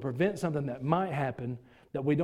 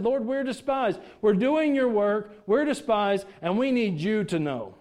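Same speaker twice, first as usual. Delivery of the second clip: higher, louder heartfelt cry to God; earnest prayer; 4 semitones higher, 4 dB louder, slower than usual. Acted. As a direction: pour it out straight to the Lord. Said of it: "He just said".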